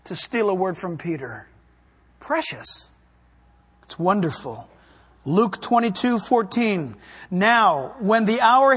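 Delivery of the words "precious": breathy, soft whisper of "Precious"; hushed "Precious". Real, not acted. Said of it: "it's precious".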